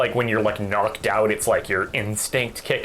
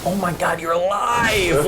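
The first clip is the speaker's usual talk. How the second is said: put-on drunk shout; 5 semitones higher than usual. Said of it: "I was like".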